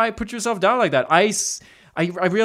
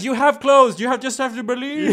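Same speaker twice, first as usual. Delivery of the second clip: high, hammed-up pleading; high-pitched mock pep talk; mock inspirational; 8 semitones higher than usual. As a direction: urge them to believe, breaking into laughter. Acted pep talk to despairing friend.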